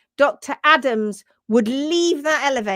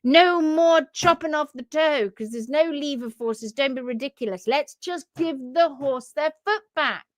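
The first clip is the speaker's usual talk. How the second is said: proclaiming to the world; 3 semitones higher than usual. Pretend. Doctor Adams telling the world about hoof care, emphatic proclamation. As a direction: lay down the law, stretching key words. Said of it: "he'd go out into the world and he'd say".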